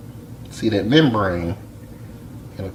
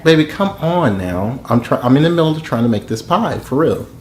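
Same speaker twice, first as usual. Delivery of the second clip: higher-pitched plea to a partner; exasperated pleading; 4 semitones higher than usual. Real, not acted. Husband in the middle of making pie, pleading with partner. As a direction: plead to be let off the phone. Begging partner to let him cook.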